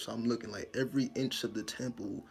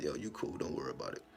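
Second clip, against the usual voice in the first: low, soft reassurance; comforting; 8 semitones lower, 5 dB quieter, faster than usual. Retold or imitated. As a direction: settle them down, voice dropped low. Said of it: "give you some type of comfort".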